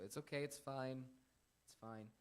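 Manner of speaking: mild, accommodating reassurance; being nice. Acted. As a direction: brush off the hit nicely, slowly. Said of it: "that's nice".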